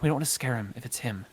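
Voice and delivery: soft, cautious hush. Acted. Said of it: "trying not to be too loud".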